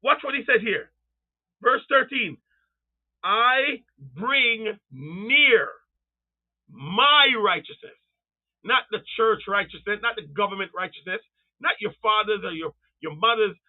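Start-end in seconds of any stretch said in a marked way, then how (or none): 3.2-8.0 very slow, swooping, stretched words; solemn scripture declamation. Retold or imitated. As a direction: draw every word out grandly. Preacher reads verse thirteen solemnly.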